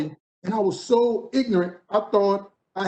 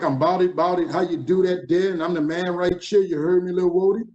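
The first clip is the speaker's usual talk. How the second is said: lightly voiced New Orleans street talk; a hint of New Orleans dialect, played for laughs; New Orleans slang. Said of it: "I was saying things like".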